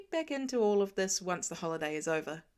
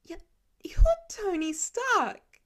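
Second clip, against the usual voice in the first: stunned, slow breathy whisper, pitched up; choked whisper; 11 semitones higher, 7 dB louder, slower than usual. A narrator's reading. Starstruck kid chokes out Tony's name in a whisper. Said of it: "he chokes out".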